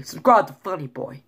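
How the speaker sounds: light attempt at North Jersey speech; lightly imitated North Jersey accent. Shown as a demonstration. Vlogger contrasting Jersey accents on his plug, North Jersey. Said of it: "North Jersey".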